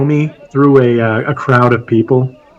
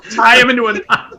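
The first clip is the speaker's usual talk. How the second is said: laughing; 8 semitones higher than usual. Real, not acted. Laughing at cartoon gag.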